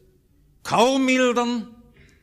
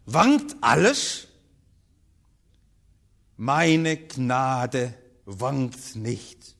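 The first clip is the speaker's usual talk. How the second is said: low, very slow, hushed answer; Jesus answering gently, drawn out; calm, slow divine reply; 7 semitones lower, much slower than usual. Acted. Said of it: "Und Jesus sagt nur".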